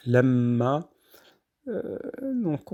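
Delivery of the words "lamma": lamma with a heavy, dark L. Shown as a demonstration. Teacher showing the Arabic lam to students, lamma with a dark L. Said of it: "on dit".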